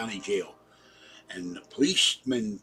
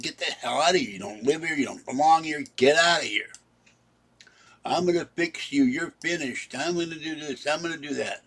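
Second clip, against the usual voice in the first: raised, mock-angry telling off; retold angry reply; 4 semitones higher than usual. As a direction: throw him out of the building, heated. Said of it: "I, I got mad".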